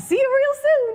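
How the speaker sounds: very high, loud cartoon mouse voice. Playing a guessing game with another player, the speaker does a Mickey Mouse voice. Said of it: "I want to do Mickey Mouse".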